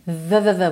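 "v, v, v" as repeated buzzing th sounds; voiced TH. Shown as a demonstration. Teacher isolates a consonant, "v, v, v" as voiced th. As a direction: buzz "v, v, v" as the th in "southern".

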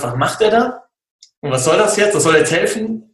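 mildly incredulous inner voice; retold bewilderment. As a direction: wonder to yourself what on earth he's doing. Retold puzzled thought during coaching.

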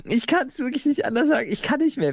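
worn out and high-pitched; exhausted. Real, not acted. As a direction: say it utterly drained. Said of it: "ich bin so weg vom Fenster".

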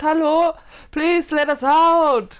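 loud, slow call for help. Retold or imitated. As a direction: shout through a locked door. Knocking on locked container door.

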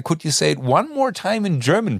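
high polite American voice; director asking. Retold or imitated. Director asking for the line in German, high and polite. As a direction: ask up high, courteous. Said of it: "Und dann meinte er".

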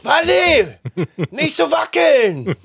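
very high squeaky call. Pretend. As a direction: squeak it out, laughing. Calling up to wife from under bed.

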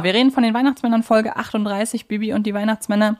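ordinary talk, nothing marked

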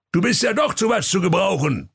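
put-on high pleased old voice; grateful Santa. Santa thanking his helper, high and pleased. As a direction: praise him, high and pleased. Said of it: "rief der Weihnachtsmann dankbar".

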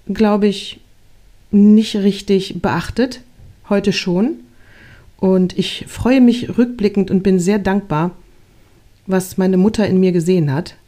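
plain reading voice

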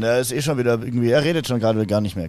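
guard NPC. Acted.

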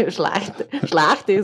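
imitated Viennese dialect; Wiener Dialekt nachgemacht. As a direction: try out the Viennese way of saying it. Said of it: "sagen die, glaub ich". (nachgeahmtes Wienerisch)

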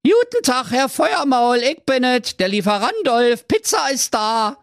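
disguise yourself as a pizza courier; fake delivery man. Prince tricking the dragon through the intercom, high and cheery. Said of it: "da rief er".

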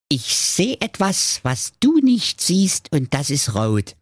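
a brother teasing at the guessing game; Jakob Grimm playing I spy. Jakob Grimm spielt Ratespiel.

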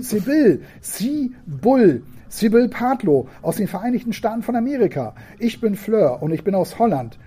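put-on high, eager child voice; two girls trading names on the radio; little girl's voice. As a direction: announce yourself proudly.

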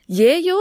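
"Jejo" drawn out and rising; careful Korean ending; slow demo ending. Shown as a demonstration. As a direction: stretch "Jejo" for learners. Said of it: "es gibt tatsächlich zwei Versionen".

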